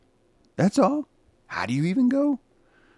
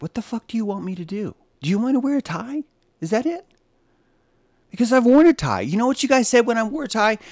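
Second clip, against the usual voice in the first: exasperated; 8 semitones higher than usual. Real, not acted. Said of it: "exasperated rant at chat".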